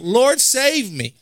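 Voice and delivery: high, drawn-out acted plea; mildly dramatized desperate appeal; crying out for rescue. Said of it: "cried out".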